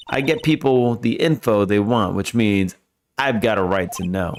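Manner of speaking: lightly voiced Southern gal standing her ground; a hint of Southern twang; southern accent. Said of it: "A southern accent can only mean".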